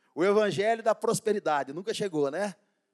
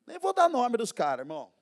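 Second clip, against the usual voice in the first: normal talking voice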